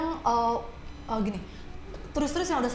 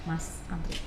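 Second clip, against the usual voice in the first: curt reminder; 5 semitones lower, 8 dB quieter, slower than usual. Retold or imitated. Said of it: "saya bilang".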